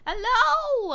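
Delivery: high, loud hello through laughter; laughing, high-pitched shout. Real, not acted. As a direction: call out hello, cracking up. Breaks out laughing, then calls out.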